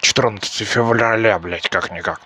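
tongue tangling on четырнадцатое февраля, слова смазаны. Real, not acted. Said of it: "Ну, язык заплетается".

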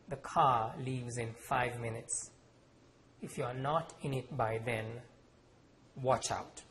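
slow, stiff cold warning. Acted. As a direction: warn without looking at him. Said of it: "she said stiffly".

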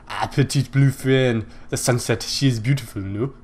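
put-on putting on an unsure French accent. Gamer improvising the French knight's lines, French accent. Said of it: "how to do a French accent".

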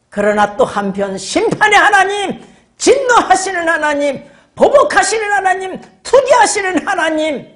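rising sermon cadence; preaching. Real, not acted. Benediction and rising list.

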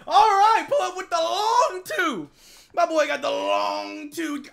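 loud, high, slow hype; excited shouting. Real, not acted. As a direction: call the shot like a fan. Excited fan commentary.

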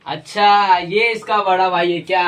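hammed-up interrogation; mock inspector. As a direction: stretch it out like a police boss. Inspector line in repeated take.

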